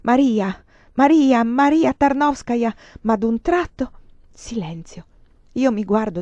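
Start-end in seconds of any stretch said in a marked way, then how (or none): 0.0-2.7 louder, higher howled name; the dying man howling after her; howling pursuer. Acted. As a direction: howl the name while chasing her. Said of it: "Egli mi insegue ululante".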